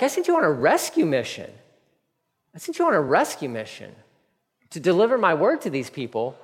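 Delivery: God rebuking Jonah over a plant, incredulous; voicing God. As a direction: press each question in disbelief.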